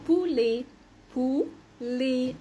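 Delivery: "بولي" in two clear syllables, ending in é; French pronunciation demo. Shown as a demonstration. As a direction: model "بولي" with a silent final t. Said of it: "اخرها او تي انطقها".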